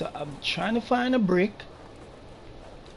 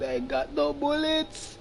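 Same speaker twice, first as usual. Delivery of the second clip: laughing panic; 8 semitones higher than usual. Real, not acted.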